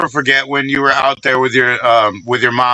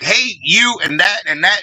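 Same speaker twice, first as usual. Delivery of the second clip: imitating an upset mom, pitched up; mildly flustered mock scolding, groping for names; flustered mother; 5 semitones higher than usual. Son imitating his mother mixing up names, flustered. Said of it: "'cause she'd be upset and flustered".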